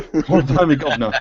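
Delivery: Cockney catchphrase, half laughing; mock Cockney. Guest joins in on the slang joke, mock Cockney. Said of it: "Everything sounds like Cockney slang".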